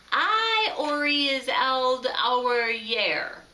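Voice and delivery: talking through sticky s'mores; words mushed by a full beak; mouth full. Acted. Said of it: "He unstuck his smory beak".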